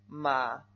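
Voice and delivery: "Ma" dipping low in the voice; third tone. Shown as a demonstration. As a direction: let "Ma" sink into a low dip. ("Ma" en tercer tono, grave)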